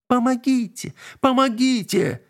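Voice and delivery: very high, terrified cries; screaming for help. A narrator's reading. Girl fleeing the witch, terrified screams. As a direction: scream for help as you run. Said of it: "кричала Алина".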